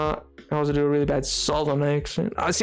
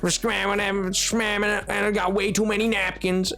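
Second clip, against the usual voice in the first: rapper impression; 3 semitones higher than usual. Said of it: "do an impression of a rapper".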